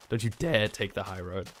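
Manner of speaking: a real crack as the voice slips. Real, not acted. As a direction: voice cracking on dare. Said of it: "Excuse my voice crack".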